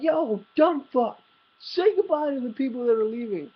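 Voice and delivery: a hint of a sloppy drunk friend ordering him around; drunk buddy voice. Drunk friend ordering narrator to say goodbye, lightly voiced rowdy drunk.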